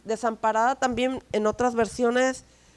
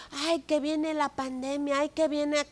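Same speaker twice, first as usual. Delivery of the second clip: higher, lightly put-on anxious wail; a hint of a frightened voice; mock panic; 4 semitones higher, 3 dB quieter than usual. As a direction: imitate a fretful believer, half-joking. Mocking the anxious believer.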